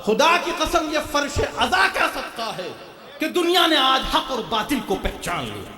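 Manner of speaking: high, fervent declaration; fervent sermon climax; impassioned preaching. Real, not acted. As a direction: swear it out to the congregation in a high voice. Preaches at full force.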